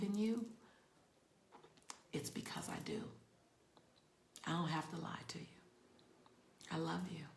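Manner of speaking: soft, mostly whispered love to viewers; tender whisper. Real, not acted. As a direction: whisper it close and sincere.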